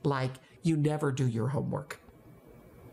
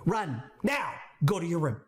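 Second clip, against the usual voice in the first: firm, contained parental command; controlled stern order; 2 semitones lower than usual. Retold or imitated. Mother sending daughter to her room, controlled sternness. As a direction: hold the anger in and order firmly. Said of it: "I wasn't capable of saying what I needed".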